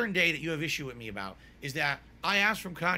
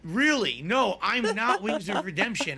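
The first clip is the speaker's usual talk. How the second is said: louder, raised voice denial; loud insistence; 3 semitones higher, 6 dB louder than usual. Real, not acted. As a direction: push back loudly, half exasperated. Insisting he's not Wings.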